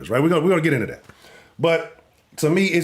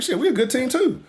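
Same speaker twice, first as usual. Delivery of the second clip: mock defensive fan; 12 semitones higher than usual. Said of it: "It's like".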